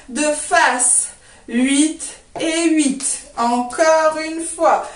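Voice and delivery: rhythmic count-in, then steps called on the beat; dance cue calling. Shown as a demonstration. Dance teacher leading a run-through, rhythmic cueing. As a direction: call each move in time, with spaces between.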